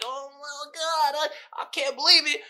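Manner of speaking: hammed-up Karen losing it. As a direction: drag it out like a shocked Karen.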